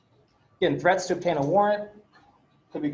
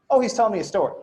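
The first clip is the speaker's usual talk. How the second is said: retold exasperated echo, slightly raised; mock indignant echo; 3 semitones higher, 4 dB louder, faster than usual. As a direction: throw the phrase back in mock disbelief. His indignant echo of officer's line.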